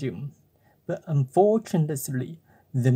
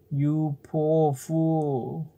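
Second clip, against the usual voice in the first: scolding cricket; much slower than usual. Acted.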